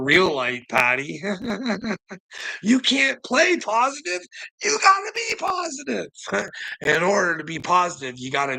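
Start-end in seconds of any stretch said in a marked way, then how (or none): 2.6-6.1 high, rising exhortation; high-pitched, sarcastic encouragement; mock pep talk. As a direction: preach it in a taunting high voice. Mock coaching the rival.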